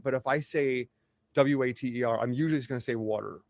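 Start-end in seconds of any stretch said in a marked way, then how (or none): 2.9-3.4 "water" said in the speaker's usual way, a little self-aware; self-conscious water. Shown as a demonstration. Speaker showing how they usually say it, self-conscious "water". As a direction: say "water" carefully, as when thinking about it. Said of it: "I'm gonna say it weird".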